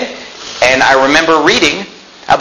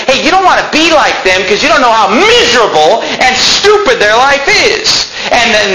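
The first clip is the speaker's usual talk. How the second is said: high, insistent rebuke; impassioned preaching; 9 semitones higher than usual. Acted. Preacher warning listeners against envying celebrities, impassioned. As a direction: warn them off hard.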